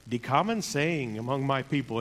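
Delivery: put-on light Jamaican accent, quoting a bandmate; a hint of a Jamaican lilt. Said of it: "in his Jamaican accent".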